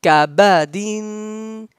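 Kabadin slow, ending in a long nasal n; ikhfa, nasal. Shown as a demonstration. Teacher giving students another example, nasal ikhfa. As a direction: hold the din of Kabadin in your nose. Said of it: "partly in your nose".

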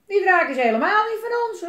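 put-on loud, high-pitched girl's protest; calling out. A narrator's reading. Elise denies the dragon is theirs, calling out. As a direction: cry it out indignantly as a child. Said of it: "riep Elise".

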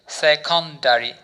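সেকেন্ডারি said slowly, each syllable spelled out; slow model word. Shown as a demonstration. Teacher models সেকেন্ডারি for students to repeat, slowly. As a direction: drag out সেকেন্ডারি so students can copy it. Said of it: "উচ্চারণ করুন আমার সাথে".

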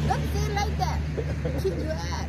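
high, loud, joking threat; playful mock anger. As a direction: snap back in fun, half-serious. Teasing spat over being lazy.

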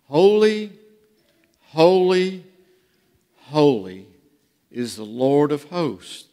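measured, declamatory Bible reading; scripture reading. Acted. Preacher reading Isaiah to the congregation, solemn scripture reading. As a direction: read it out solemnly, with spaced phrases.

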